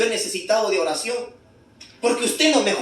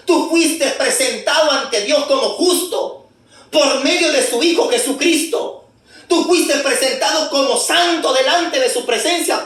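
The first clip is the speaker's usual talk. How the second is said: fervent preaching. Acted. Preaching justification at full force.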